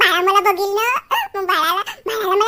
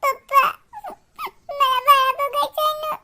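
whimpered, put-on crying plea; tearful pleading; 3 semitones higher than usual. Child begging Papa to see the baby, tearful. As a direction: beg Papa through little sobs. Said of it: "रडू नये".

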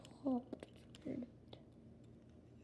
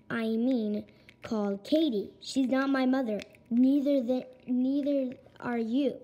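angry yelling; 7 dB louder than usual. Acted. Kid yells at dad over adoption.

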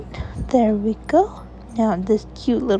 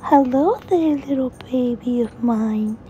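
mommy greeting; 3 semitones higher than usual. Acted. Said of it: "And she said".

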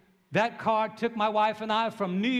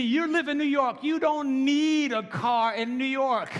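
father's stern retort; 5 semitones higher, slower than usual. Retold or imitated. Father's retort voiced in story.

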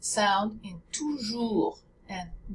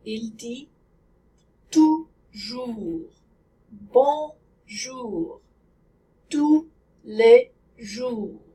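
slow, word by word, with rounded French oo's; slow French demo; slower than usual. Shown as a demonstration. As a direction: spell the sentence out slowly for learners. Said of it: "Try saying this sentence".

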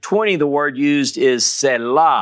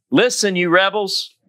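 raised-pitch scolding, lightly voiced; stern rebuke; 6 semitones higher than usual. A narrator's reading. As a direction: scold the crowd sharply. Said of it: "and said".

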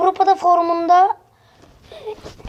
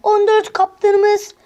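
excited goal call; 5 semitones higher, much slower than usual. Real, not acted. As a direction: call the goal like a TV commentator, stretching the words. Goal celebration commentary.

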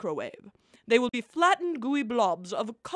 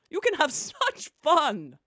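laughing; 3 semitones higher than usual. Acted. Laughs while speaking.

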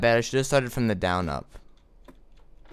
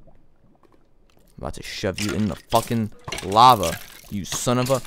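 drawn-out, menacing threat to the mob; slow threat; 2 semitones lower, slower than usual. Real, not acted. Frustrated gamer threatening the skeleton, slow menace. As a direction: lean into every word like a promise.

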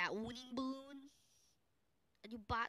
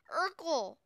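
hype shout; 8 semitones higher, 8 dB louder than usual. Acted. Announcing famous strategy.

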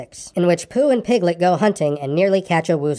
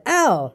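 storybook yelp, pitched up; pained "ow"; 6 semitones higher than usual. A narrator's reading. Pooh pulled by his friends, high mild yelp.

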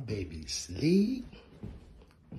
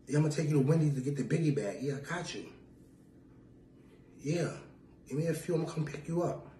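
fake phone flirting; 4 semitones higher than usual.

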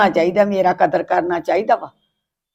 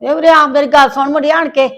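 calling out; 6 semitones higher than usual. Acted. Mother calling son over.

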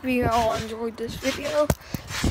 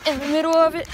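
bouncing while talking; on a trampoline; 3 semitones higher than usual. Real, not acted. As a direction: talk while jumping on a trampoline. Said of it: "I'm on the trampoline".

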